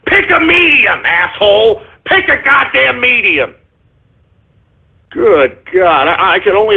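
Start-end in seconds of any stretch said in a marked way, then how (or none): 0.0-3.5 slow, emphatic reprimand; irritated scolding. Real, not acted. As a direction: order it slowly, fed up. Host scolds a caller.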